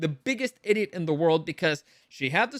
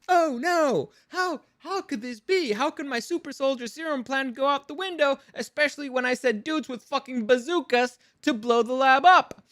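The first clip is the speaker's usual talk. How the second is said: mock dramatic villain; 7 semitones higher than usual. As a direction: ham up a clueless villain's dismay, way up high. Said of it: "and then she's like".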